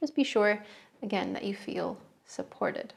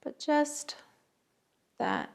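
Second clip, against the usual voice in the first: unhurried meditation guidance, long pauses between phrases; guided meditation. Real, not acted. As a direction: guide listeners gently into the breath, phrase by phrase. Leads a breathing meditation.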